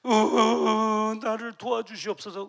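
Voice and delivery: slow, wailing plea with a sob; crying out. Acted. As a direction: cry out to God in tears. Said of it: "울음이 섞인 외침". (울음 섞인 외침)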